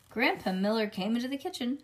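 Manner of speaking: ordinary delivery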